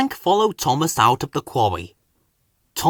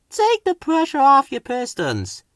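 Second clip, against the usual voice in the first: higher, a gentle coaxing whistle; kindly; 12 semitones higher than usual. A narrator's reading. Hank kindly urges straining Thomas to ease off. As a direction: soothe a struggling friend. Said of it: "Hank whistled kindly".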